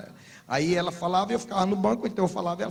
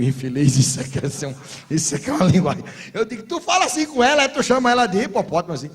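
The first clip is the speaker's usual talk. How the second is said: bronca; 2 semitones higher, 6 dB louder than usual. Retold or imitated.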